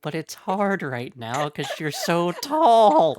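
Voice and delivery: high, loud, laughing through the words. Real, not acted. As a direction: giggle it out while threatening.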